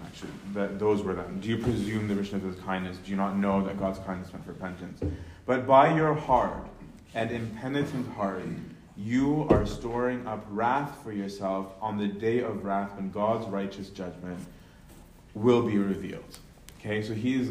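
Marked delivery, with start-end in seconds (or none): 1.4-4.5 quick paraphrase. Shown as a demonstration. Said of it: "rhetorical questions". 5.5-16.4 scripture reading. Acted. Reading verse five aloud.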